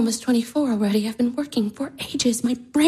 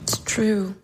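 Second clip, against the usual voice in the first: hushed, breathy despair; a defeated whispered admission; 8 dB quieter than usual. Acted. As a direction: whisper it to yourself. Irina despairing, alone.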